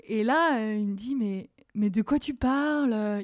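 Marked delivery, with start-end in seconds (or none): 1.2-3.2 slow, drowsy half-awake mumble; sleepy. Retold or imitated. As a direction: sound like he just woke up. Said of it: "Il a l'air tout endormi".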